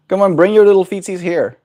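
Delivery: high sing-song coaxing of a bird; pet talk. Real, not acted.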